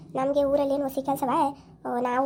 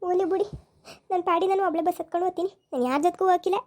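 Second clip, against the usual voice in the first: put-on higher, sulky, complaining young woman; sulky young wife; 5 semitones higher than usual. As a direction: pout and protest like a wronged young wife. (ಮುನಿಸಿಕೊಂಡ ಯುವತಿಯ ಧ್ವನಿ)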